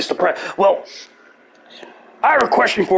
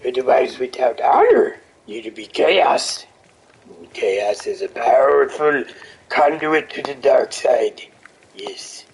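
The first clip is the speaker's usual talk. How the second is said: lightly voiced little green master; Yoda voice; 2 semitones lower than usual. Yoda warning a samurai about chaos. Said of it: "I could do Yoda".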